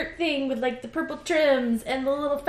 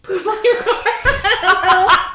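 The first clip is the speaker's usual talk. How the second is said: put-on bright magical girl; 6 semitones higher, much slower than usual. Raven power phrase, joking.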